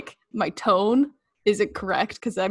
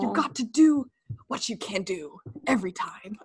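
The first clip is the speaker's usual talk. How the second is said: rousing Michael speech. Acted. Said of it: "his rousing monologue speech".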